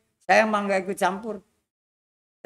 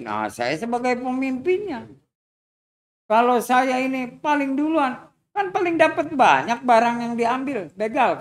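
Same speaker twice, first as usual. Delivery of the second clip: boastful bandit; 3 semitones higher than usual. Acted. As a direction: puff up like a proud robber. Bandit boasts to old man. (suara begal membual, sedikit keras)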